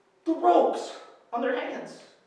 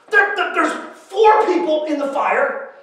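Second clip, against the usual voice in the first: stammering amazement; 3 semitones higher, 3 dB louder than usual. Acted. King amazed at four in fire.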